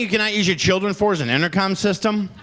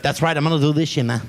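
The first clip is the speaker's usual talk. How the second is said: put-on Mexican accent; faster than usual. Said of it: "such a strong Mexican accent".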